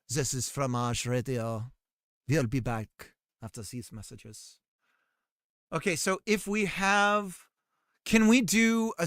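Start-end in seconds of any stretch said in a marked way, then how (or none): 0.1-4.6 mock radio announcer. Streamer joking about a cheese radio station, smooth announcer. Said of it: "It's Fromage Radio".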